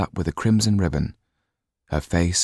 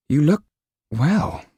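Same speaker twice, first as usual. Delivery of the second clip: put-on girl voice; 10 semitones higher, 4 dB louder, slower than usual. A narrator's reading. Sido shy compliment.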